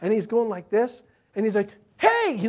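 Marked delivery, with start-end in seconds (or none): 2.0-2.4 put-on sudden high, loud kid's cry; excited little boy. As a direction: imitate a boy calling out in excitement. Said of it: "he's all excited".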